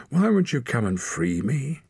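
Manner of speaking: high whining plea; pleading wolf cub. A narrator's reading. Wolf cub begs Torak to free him, high whining. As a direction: beg like a trapped pup.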